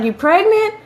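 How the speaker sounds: high-pitched mom asking pointedly; suspicious mother. Retold or imitated. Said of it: "She was like".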